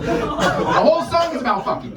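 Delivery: slow and high, cracking up; incredulous laughing repeat. Real, not acted. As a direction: push it out through laughter. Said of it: "repeats the line laughing".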